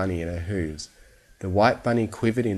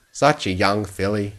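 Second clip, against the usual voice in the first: murmured; 4 dB louder than usual. Acted. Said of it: "he murmured with a soft smile".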